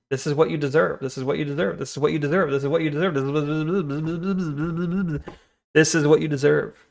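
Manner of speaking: soft, fading repetition; hushed repeating. Acted. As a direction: murmur it over and over, dropping away. Repeats game line softly.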